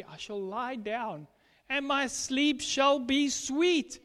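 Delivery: slow, measured reading of the verse; scripture recitation. Real, not acted. Quoting Proverbs to the congregation, slow solemn reading. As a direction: read it out slowly like a promise.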